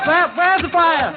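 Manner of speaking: startled out of the room; alarmed. Acted. Crook startled by fire cry.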